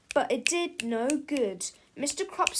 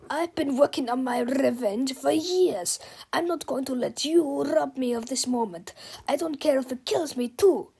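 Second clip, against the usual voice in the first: furious; 2 semitones higher, 4 dB louder than usual. Acted. Villain raging about revenge.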